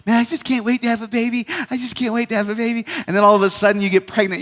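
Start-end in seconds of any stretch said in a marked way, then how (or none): 0.1-2.9 same longing voice, rushed on the repeat; eager young woman, faster repeat. Retold or imitated. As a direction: hurry the wish out again. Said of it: "you're like".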